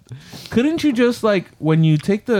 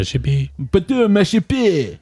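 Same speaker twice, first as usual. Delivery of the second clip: fake French; 3 semitones higher, slower than usual. Shown as a demonstration. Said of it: "It's in the front".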